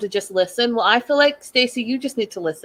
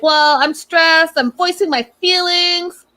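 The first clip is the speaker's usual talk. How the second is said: higher, louder, slow mock-indignant quote; mock her insisting on her feelings; higher, slow hammed-up huffy voice; imitating Stacy; 7 semitones higher, 3 dB louder than usual. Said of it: "And Stacy's like".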